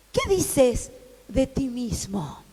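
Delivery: pregunta susurrada, lenta; suéltalo casi sin voz, como un secreto; susurro. A narrator's reading. (pregunta en susurro, despacio)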